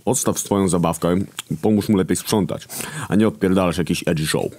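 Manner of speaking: whispered scolding. A narrator's reading. Hunger scolds Death.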